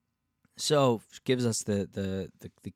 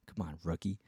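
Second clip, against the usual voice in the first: soft whispered rookie jab; whispered self-scolding; 4 semitones lower, 7 dB quieter than usual. Real, not acted. Whispering a scold at herself for a rookie mistake. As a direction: whisper it at yourself.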